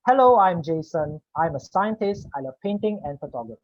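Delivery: quick lines, barely a pause between sentences. Shown as a demonstration. Teacher demos chatty Jason's quick delivery, fast with short gaps. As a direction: rattle it off like an eager extrovert. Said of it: "when I use Jason's voice, Jason speaks faster".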